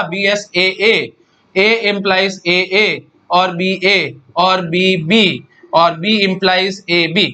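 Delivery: each symbol spelled out slowly for notes; slow dictation. Shown as a demonstration. Teacher to class, dictating the grammar slowly. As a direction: dictate it so students can copy.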